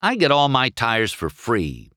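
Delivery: mildly irritated brush-off; testy race car; irritable. Acted. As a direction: wave off the sales pitch. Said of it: "he said irritably".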